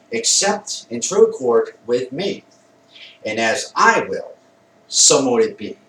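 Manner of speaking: measured ritual chant, punching key words; emphatic incantation. Shown as a demonstration. Blessing the circle with salt and water, emphatic incantation. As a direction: recite the blessing with conviction. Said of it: "I say it with emphasis".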